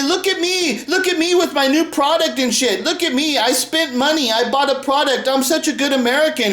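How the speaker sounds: a mocking, show-off shopper. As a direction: sneer like a proud shopper. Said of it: "And you say".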